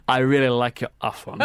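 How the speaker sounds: weak Afrikaans accent, no rolled R; failed attempt at Afrikaans. Shown as a demonstration.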